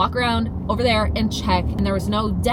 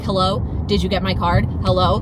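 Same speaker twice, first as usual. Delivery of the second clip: calling out; 2 semitones lower, 4 dB louder than usual. Retold or imitated. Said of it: "I'm, like, hollering".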